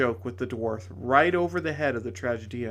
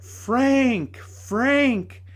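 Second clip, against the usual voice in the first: high, loud ringing call; ringing cry; 10 semitones higher, 5 dB louder than usual. Acted. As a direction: call so the wood rings. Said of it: "she cried in a voice and made the whole wood ring".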